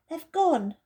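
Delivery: Edmund's voice. Acted. Edmund complains to the others about the camphor, disgusted. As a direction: wrinkle your nose at the smell.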